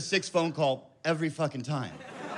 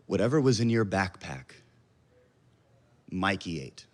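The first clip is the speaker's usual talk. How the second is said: calm; 9 semitones lower than usual. Retold or imitated. Wife delivering the bad news, eerily calm. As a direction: lower and let it land calmly. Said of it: "in the most calm manner".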